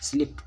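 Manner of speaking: स्लिप्ड ending in a voiceless T; correct past ending. Shown as a demonstration. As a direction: say स्लिप्ड as "slipt". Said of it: "ट sound दे रहा है". (स्लिप्ड के अंत में ट की आवाज़)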